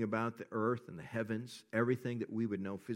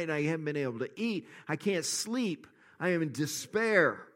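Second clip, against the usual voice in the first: desperate psalmist; 3 semitones higher than usual. Retold or imitated. Pastor voices the psalmist crying out to God, anguished plea. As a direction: plead as the sleepless psalmist. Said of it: "Psalmist is crying out to God".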